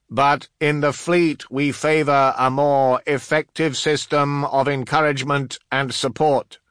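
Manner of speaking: high, loud, declaimed official voice; Master of Artifice. Acted. Artificer reproving an officer who yelled, high loud voice. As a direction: pitch it up and project every word.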